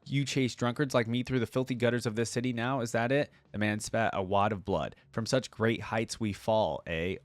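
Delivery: measured storyteller's read; audiobook-style narration; story narration. A narrator's reading. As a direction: read the tale aloud with deliberate phrasing. Reading story aloud.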